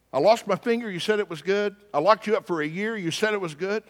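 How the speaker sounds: high-pitched mock-indignant listing; exasperated complaint. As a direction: play a baffled king tallying up grievances. Acted king listing his grievances.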